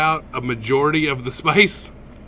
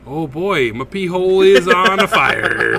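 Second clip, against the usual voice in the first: mock alarm; 6 semitones higher, 7 dB louder, slower than usual. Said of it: "and it's just like".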